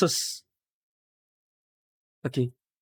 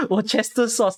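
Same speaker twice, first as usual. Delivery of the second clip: higher, laughing at own mispronunciation; 4 semitones higher than usual. Real, not acted. Streamer stumbling on a sauce's name, laughing. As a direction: crack up while trying the word.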